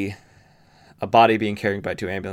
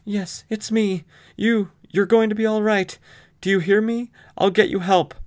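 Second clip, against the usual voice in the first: higher, pleading daughter; voicing the daughter; 12 semitones higher, 3 dB louder than usual. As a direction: reassure the dying father urgently. Daughter voiced over dying father.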